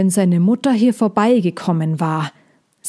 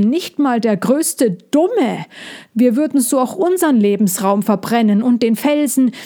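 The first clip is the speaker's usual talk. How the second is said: a touch higher, insisting; indignant protest; 3 semitones higher than usual. Acted. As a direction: defend your people firmly. Molchi defends dragons.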